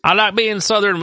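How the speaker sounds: high, hammed-up Southern twang; mock Southern accent. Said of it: "and he just goes off".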